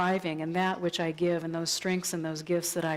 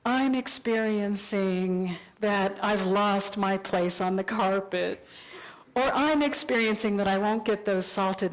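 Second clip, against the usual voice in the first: calm compassionate statement. Shown as a demonstration. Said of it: "do compassionate communication and say".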